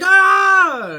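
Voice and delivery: loud, high panicked cry; sudden high shout; startled yell. Retold or imitated. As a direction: scream in alarm. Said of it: "I'm just like".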